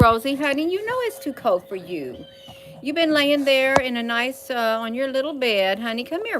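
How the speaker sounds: fond pet talk; coaxing a pet. Real, not acted. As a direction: coax the little pet along. Coaxing pet Rosie to come.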